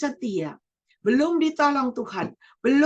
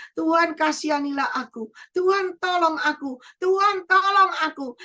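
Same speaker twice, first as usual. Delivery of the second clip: desperate plea; 5 semitones higher, 4 dB louder than usual. Pretend. Believer crying out to God.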